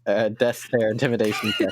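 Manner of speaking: laughing. Real, not acted.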